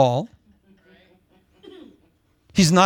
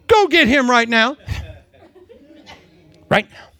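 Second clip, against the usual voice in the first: demanding prophet; 9 semitones higher than usual. Retold or imitated. John ordering the Lord around.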